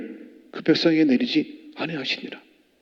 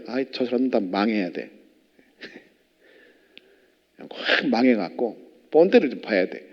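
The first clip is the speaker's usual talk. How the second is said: scornful grumble; 6 semitones lower than usual. Retold or imitated. Mocking our judgmental thoughts.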